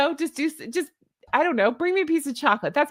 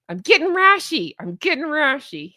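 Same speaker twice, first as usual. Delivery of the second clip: quoting Jackie; 3 semitones higher, 3 dB louder than usual. Retold or imitated. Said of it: "To quote Jackie from Bitch Bible".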